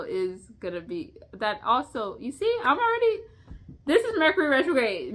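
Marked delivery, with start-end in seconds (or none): 2.2-5.1 laughing. Real, not acted. Laughs at her own stumbling.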